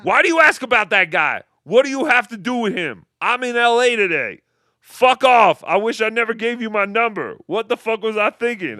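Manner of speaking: hammed-up gangster snapping back; mock angry mobster. Mocking the mobster's angry text.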